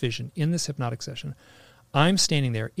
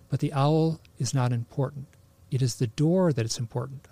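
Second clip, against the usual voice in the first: clear and calm. Retold or imitated. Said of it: "I speak very clearly".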